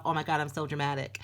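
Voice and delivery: lightly put-on American accent; quick mock-American quote; a hint of an American accent. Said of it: "That was an American accent".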